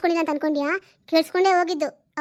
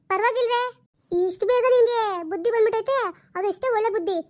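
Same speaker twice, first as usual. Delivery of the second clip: higher, mocking sarcastic praise; sarcastic mockery; 4 semitones higher than usual. Aunt mocking her niece for lecturing her, sarcastic. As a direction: sneer at her for lecturing you.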